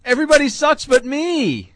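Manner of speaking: a high, loud mock Brady whine; a lightly done Brady soundbite; imitating Tom Brady. Quoting a Brady soundbite to the hosts, a high mock whine. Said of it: "soundbite ... from Tom Brady".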